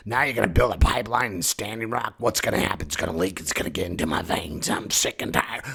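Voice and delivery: raspy, fed-up Mother Earth; gruff, sickly complaint; Nick Nolte. Acted. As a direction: grumble hoarsely, running out of patience. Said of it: "Does Mother Earth sound like Nick Nolte?".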